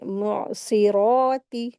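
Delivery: "मुअस्सिराती" slow, throaty ain, heavy s, long heavy "रा"; correct recitation. Shown as a demonstration. Teacher correcting the mistake, slow full articulation. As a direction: stretch "मुअस्सिराती" with a clear catch in the throat. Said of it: "heavy करेंगे".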